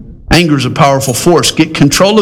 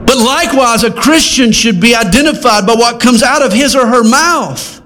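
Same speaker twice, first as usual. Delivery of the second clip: higher-pitched sermon exhortation; impassioned preaching; 8 semitones higher than usual. Acted. Preacher telling Christians how to be known, raised and insistent. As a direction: lift the voice and drive the lesson home.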